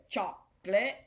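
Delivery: "chocolate" split as choc-lut, imitating a film line; imitated two-syllable pronunciation. Teacher quoting Gump's movie line, "chocolate" as choc-lut. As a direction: say "chocolate" in two separated beats, no middle o. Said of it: "You know, he said".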